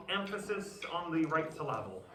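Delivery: "emphasis" and "syllable" stressed on the second syllable; misplaced stress joke. Shown as a demonstration. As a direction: put the accent on the wrong syllable in "emphasis" and "syllable".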